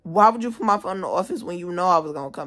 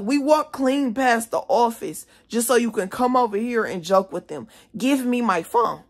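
raised, high indignant complaint; angry confrontation, retold; 4 semitones higher than usual. Student to staffer joking with class, retold raised anger. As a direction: complain hotly, landing on a demand.

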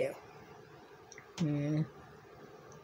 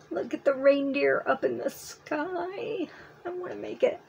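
excited; 7 semitones higher than usual. Real, not acted. Excited by a pattern.

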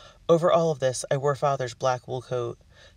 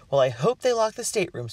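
higher, peevish grumble; grumbling; 6 semitones higher, 3 dB louder than usual. A narrator's reading. Missus Carstairs grumbling to Margaret about her staterooms, peevish. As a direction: complain like a put-out matron. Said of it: "Missus Carstairs grumbled".

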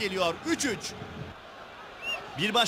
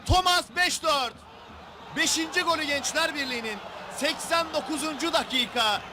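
excited goal shout; 4 semitones higher than usual. Real, not acted. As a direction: belt out the late winner in disbelief. Late winning goal called.

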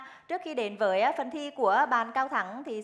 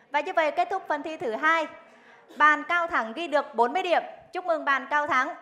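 bright, louder congratulations; game show host; 4 semitones higher, 5 dB louder than usual. Acted. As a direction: announce the score with cheer. Host announces score.

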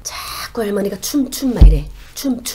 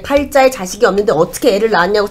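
alarmed outburst; 3 semitones higher, 5 dB louder, faster than usual. Acted. Grandmother spirit is furious.

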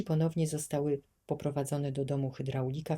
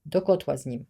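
booming order; 7 dB louder than usual. A narrator's reading. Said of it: "huknął mężczyzna".

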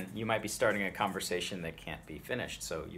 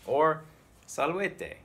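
acted group greeting; 9 semitones higher, 9 dB louder, much slower than usual. Shown as a demonstration. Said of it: "So you go to someone".

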